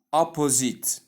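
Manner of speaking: "opposite" with a full "oh" in the middle, o-po-zit; mispronounced opposite. Shown as a demonstration. Teacher showing learners a wrong opposite, mispronounced with a full "po". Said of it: "but simply opposite".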